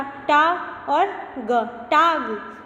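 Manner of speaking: टाग built up slowly, sound by sound; slow syllable spelling. Shown as a demonstration. Teacher spelling the word for students.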